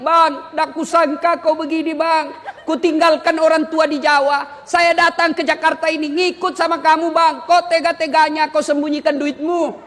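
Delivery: a wife's sulky reproach, lightly acted; lightly voiced wife pleading with her husband; hurt wife complaining. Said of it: "Boleh marah seperti itu".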